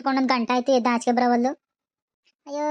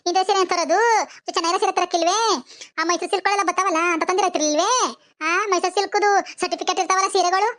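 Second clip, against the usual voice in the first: higher-pitched nagging, affronted; indignant complaining; 3 semitones higher than usual. Acted. Widow forgets mourning and berates sister-in-law over sari, indignant complaint. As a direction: scold her over a disappointing gift.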